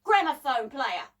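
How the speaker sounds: put-on high, loud girl's tirade; indignant shouted threat; shouting. A narrator's reading. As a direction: shout the accusation, starting very high. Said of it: "started shouting".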